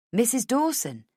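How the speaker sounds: high, questioning echo of the name; surprised question. Acted. Woman questions the surprising news.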